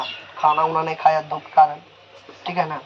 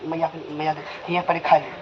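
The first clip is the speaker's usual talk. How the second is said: much softer, as if hiding from the mother; secretive hush; 7 dB quieter than usual. Retold or imitated. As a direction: slip the sweets over quietly so no one hears. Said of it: "नुका नुका देता था". (छुपाकर धीमी आवाज़ में)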